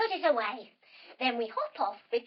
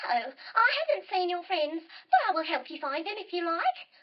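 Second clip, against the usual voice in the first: higher, lightly hissed snake voice; friendly snake, lightly voiced; hissing snake; 4 semitones higher than usual. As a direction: hiss the first word, then offer help. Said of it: "and she hisses".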